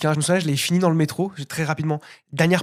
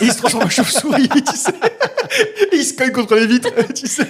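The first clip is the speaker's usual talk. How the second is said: higher, louder words breaking up with laughter; laughing while talking; 7 semitones higher, 5 dB louder than usual. Real, not acted. Co-host mocking vampire clichés to friends, laughing through it. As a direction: barely get it out for laughing.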